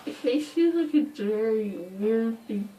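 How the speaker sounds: slow, words round gauze; mouth full of gauze. Real, not acted. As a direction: talk around gauze in mouth. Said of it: "I'm talking really weird".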